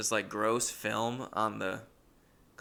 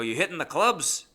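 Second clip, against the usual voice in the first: higher, louder imitation of eager roommate; old roommate; 6 semitones higher, 5 dB louder than usual. Old roommate's daily question to narrator, imitated high and loud. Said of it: "He would always go".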